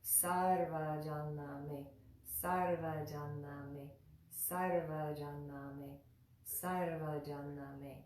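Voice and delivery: "Sarvajana me" measured, with a soft v in va. Shown as a demonstration. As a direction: repeat "Sarvajana me" evenly for learners, softening the va. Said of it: "still have that soft va".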